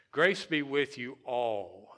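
grace punched, whole line slow; slow line with grace stressed. Shown as a demonstration. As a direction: lean on grace, say be with you all slowly. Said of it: "concentrate on the word grace".

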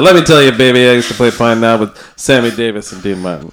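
lightly put-on old-time crooner patter; a rough, jokey go at a lounge singer; a famous crooner. Host playfully boasting of old gigs, half-hearted crooner impression. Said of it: "my terrible crooner impression".

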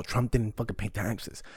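normal talking voice

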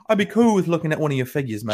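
quick mock British accent; imitating a British accent at speed. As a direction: put on a British accent, fast. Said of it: "but he did it with, like, a real British accent".

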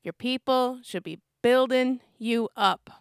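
slow, measured take on her husband; Don impersonation. Acted. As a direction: lightly imitate a husband, word by word. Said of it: "that was the best Don impersonation I have".

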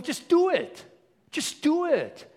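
high, loud exhortation; emphatic command. Acted. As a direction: shout it like a fired-up coach. Acts Jesus exhorting the apostles.

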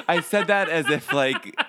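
laughing while talking; words through laughter. Real, not acted. Laughing at own dark joke.

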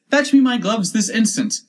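high, loud rabbit's command; urgent, high-pitched demand; imperious order. Acted. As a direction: order a servant sharply. Rabbit orders the servant about.

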